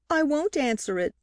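sharp upset outcry; crying out. A narrator's reading. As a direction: blurt it out in distress. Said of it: "she cried".

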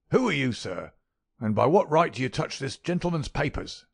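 high, loud crackling challenge; old man demanding an answer; sharp crackling old man. A narrator's reading. Miser challenging the detective, loud crackling old voice. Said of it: "his voice had a sharp crackle".

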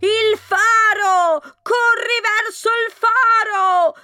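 distant call carried on the wind; gusting windy whisper. Acted. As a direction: call out faintly through the storm. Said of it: "urlò ancora la voce portata dal vento".

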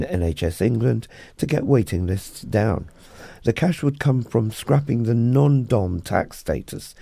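crisp radio newsreader delivery; news read. Acted. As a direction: read it like a bulletin.

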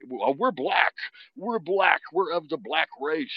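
loud, high-pitched mock protest; hammed-up, high-pitched insistence; mock insistent. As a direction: imitate someone loudly insisting. Retells friends insisting on their identity.

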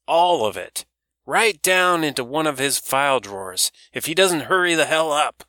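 put-on a loud old woman teasing about moping Barry; brash old woman. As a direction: rib the young man like a loud old auntie. Doris voiced by narrator.

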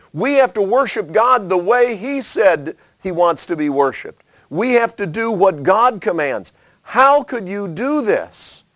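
a high, hurt rebuke to the people who built the altar; pleading reproach. Acted. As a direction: plead with them as if betrayed. Tribes confront others over altar.

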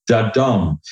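"da" short and light, then "dum" long and stressed; iamb beat. Shown as a demonstration. Guest shows one iambic foot, light then strong. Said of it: "iamb is".

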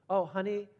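level, picky "Oh, honey," said as a criticising parent; critical parent. Pretend. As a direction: start sizing up the drawing's faults. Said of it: "what am I doing now? Now I'm being critical".

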